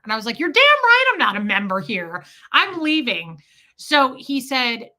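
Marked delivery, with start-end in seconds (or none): 0.4-3.4 indignant retort. Retold or imitated. Indignant reply to church member.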